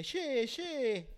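high mock Argentine "che"; Argentine accent. Imitating the Argentine guy, high mock accent. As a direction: squeak out a mocking Argentine "che". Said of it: "y me dice".

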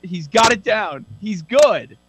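slow, loud and grand; mock grand proclamation. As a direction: announce it like a solemn decree. Mock proclamation about teammate.

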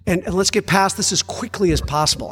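high bright fake cheer, settling down; sing-song forced optimism; cheerful voice hurrying past grief; mock cheery. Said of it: "We're like".

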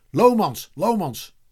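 high, loud call easing on the repeat. A narrator's reading. Boys call Eddy by surname, calling out. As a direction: call his surname from a distance.

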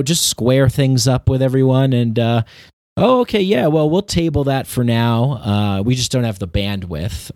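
high, eager corporate jargon; chirpy sales talk that fades down; salesman voice. Retold or imitated. Former salesman mocking corporate jargon, high and eager. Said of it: "They talk in shapes".

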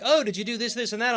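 high, puzzled questioning voice; quizzical organizer voice. Retold or imitated. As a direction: ask it like a confused challenge admin. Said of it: "And they're like".

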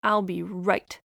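lightly voiced chatty little bird; a hint of a busy songbird; blue jay voice.

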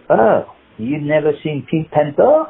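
put-on slow, mildly incredulous French accent; lightly voiced old Frenchman asking; old French man. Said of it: "he was an old French guy".

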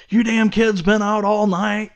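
put-on high-pitched grumpy old man telling kids off; mock yelling old man. Old man scolding kids out all night, mock yelling. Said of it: "he starts yelling at 'em".

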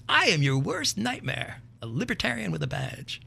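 lightly voiced tough-cop movie line, slow; a hint of a movie-cop threat; mock menacing quote, drawn out; Eddie Murphy quote. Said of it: "the old Eddie Murphy movie, Forty-eight Hours".

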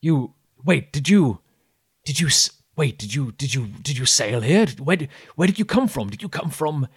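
excited islander. Acted. Islander stammers questions.

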